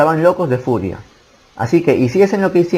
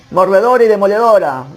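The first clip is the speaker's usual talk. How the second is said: high-pitched, raised cry of alarm; shriek; 7 semitones higher, 4 dB louder than usual. A narrator's reading. Goblins recognising the dreaded enemy swords, narrated shriek. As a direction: cry it out high, like a startled horde.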